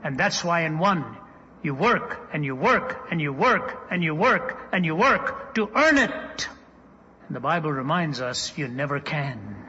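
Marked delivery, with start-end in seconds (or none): 1.6-6.5 preacher hammering each WORK, building to a higher EARN IT; rhythmic repetition, rising on every work; building preaching. Real, not acted. Preacher driving home endless striving, building preaching.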